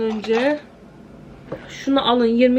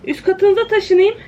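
called out louder and higher; louder repeat; 8 semitones higher, 4 dB louder than usual. Real, not acted. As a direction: raise the voice to carry. (yüksek sesle tekrar)

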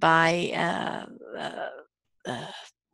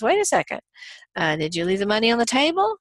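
higher, startled call after a leaving guest, then quicker; surprised waiter; 4 semitones higher, faster than usual. Retold or imitated. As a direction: catch the customer at the door, surprised. Waiter stops departing customer.

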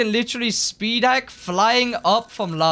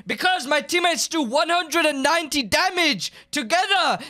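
angry rant; 4 semitones higher than usual. Real, not acted. Raging rant at critics.

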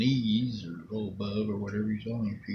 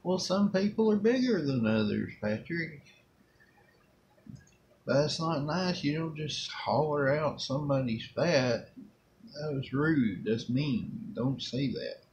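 gentle correction; 5 semitones higher than usual. Retold or imitated. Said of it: "I say the only thing I can say".

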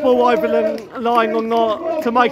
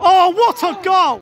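raised, delighted cry; excited; 7 semitones higher, 4 dB louder than usual. Real, not acted. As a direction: admire the goal. Admiring a goal.

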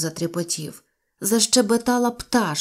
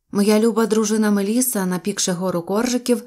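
usual speaking voice

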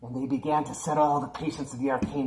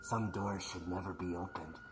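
horror trailer voice; 3 dB quieter than usual. A narrator's reading. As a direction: warn the children in a creepy hush. Spooky warning to boys and girls.

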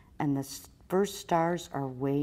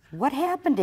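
high-pitched, louder rabbit question; surprised-sounding high question; rabbit asking; 9 semitones higher, 5 dB louder than usual. A narrator's reading. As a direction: ask it high, as a little rabbit. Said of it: "asks the rabbit".

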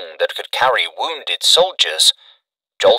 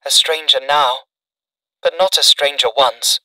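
thrilling tones; 6 semitones higher than usual. A narrator's reading. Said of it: "in tones that thrilled him".

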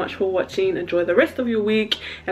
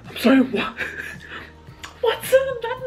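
laughing disbelief. Real, not acted. Laughing disbelief at game scene.

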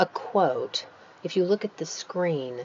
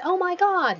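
mock excited gasp; 13 semitones higher, 3 dB louder than usual. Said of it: "words like ejaculated for someone saying".

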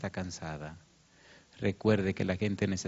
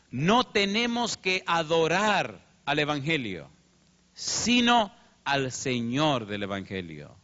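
emphatic quotation; 5 semitones higher, 3 dB louder, slower than usual. Retold or imitated. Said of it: "escribió lo siguiente".

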